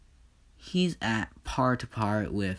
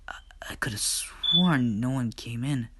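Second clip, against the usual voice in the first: frightened whisper. Acted. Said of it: "his blood runs cold".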